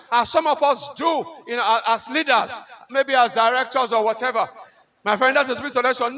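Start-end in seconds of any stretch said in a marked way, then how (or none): 5.0-6.2 dismissive leader. Shown as a demonstration.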